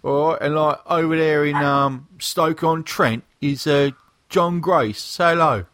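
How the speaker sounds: hammed-up British geezer greeting; fake British accent. Podcast host introducing the lads, in a fake British accent. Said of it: "enough of the fake British accents".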